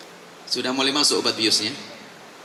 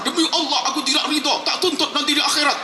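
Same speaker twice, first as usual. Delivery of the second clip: vengeful oath; 11 semitones higher than usual. Retold or imitated. A spiteful person swearing before God to sue in the afterlife, furious. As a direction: swear revenge on judgement day. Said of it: "kalau sudah marah".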